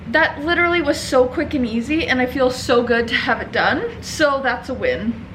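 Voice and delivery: breathless, a bit winded; out of breath after rushing. Real, not acted. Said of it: "sorry, I'm out of breath".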